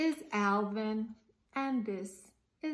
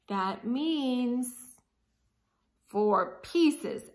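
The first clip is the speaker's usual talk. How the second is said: louder, fed-up groan; 2 semitones higher, 6 dB louder, much slower than usual. Acted. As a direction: grunt out the count unhappily. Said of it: "Al groaned and grunted".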